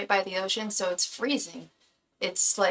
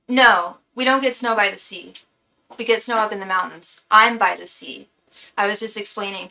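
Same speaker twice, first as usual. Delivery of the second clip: out of breath; 6 dB louder than usual. Real, not acted. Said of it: "Sorry, I'm kinda out of breath".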